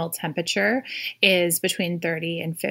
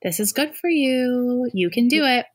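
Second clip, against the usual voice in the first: calm soul voice; 5 semitones higher, slower than usual. Retold or imitated. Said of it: "the soul voice comes in and says".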